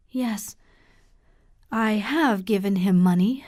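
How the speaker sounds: whispered admission, barely breath; ashamed whisper. Acted. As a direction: confess it under your breath. Sister ashamed confessing giving money.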